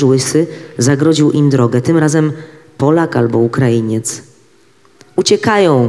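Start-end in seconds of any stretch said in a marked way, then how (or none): 5.2-5.9 a sharp, higher call pointing them out; shout. A narrator's reading. Man shouting at fleeing Jews, raised voice. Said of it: "krzyczał po polsku".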